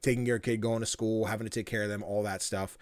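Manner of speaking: low, quiet, sighing complaint; hammed-up tired parent, voice dropped right down; mumbling mock despair about how hard life is; mock weary lament.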